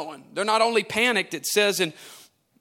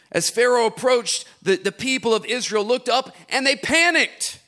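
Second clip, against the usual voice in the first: livelier reread; 3 semitones higher than usual. Shown as a demonstration. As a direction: read it again with more energy and lift. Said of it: "Don't do this".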